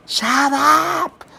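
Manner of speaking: put-on high yelled shout at the kids; mock yell. Grandmother yelling at the noisy kids mid-call. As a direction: snap it out high and sharp. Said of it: "she would yell it real loud".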